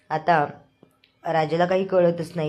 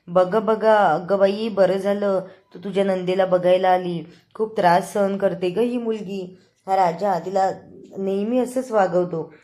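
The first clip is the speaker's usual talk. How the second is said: calling out loudly; 2 semitones higher, 4 dB louder than usual. Retold or imitated. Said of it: "ही सुलात त्या मोठ्याने ओरडते".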